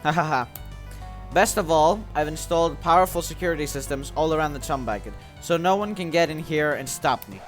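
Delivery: lightly voiced scheming villain. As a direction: gloat over the plan like a small tyrant. Reads Plankton's villain lines.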